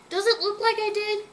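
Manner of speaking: high, sarcastic snap; annoyed retort. Acted. Berkeley answering Sadie, high sarcastic retort. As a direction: throw it back sarcastically.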